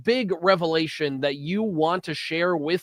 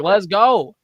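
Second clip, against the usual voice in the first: louder, punchy mock-eager; eager quote; 3 semitones higher, 7 dB louder than usual. Cohost imitating Corey rushing to dinner, loud and eager. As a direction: bark it like you're already out the door. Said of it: "And he's like".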